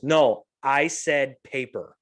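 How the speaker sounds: slow, curt mock Karen retort; a hint of a rude customer; bitchy response. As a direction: snap it back slowly like a rude customer. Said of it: "kind of a bitchy response".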